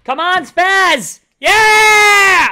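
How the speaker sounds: slow, loud, high cheer into a shout; root hard for the shot. Real, not acted. Cheering on his friend's shot, loud.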